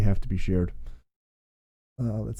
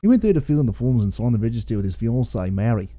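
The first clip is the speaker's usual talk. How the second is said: light put-on Australian accent, reading scripture; a hint of Aussie twang, read like a Bush yarn. Reading the Aussie Bible aloud to his co-host, lightly put-on Australian accent. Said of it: "I don't know why you had to read in an Australian accent".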